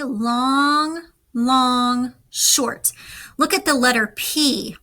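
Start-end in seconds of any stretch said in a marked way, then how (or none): 0.0-2.9 long drawn slowly, short clipped quick; long long short rhythm. Shown as a demonstration. Teacher to students, sounding out the letter G slowly. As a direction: say long long short like Morse beeps. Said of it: "two long sounds and one short sound".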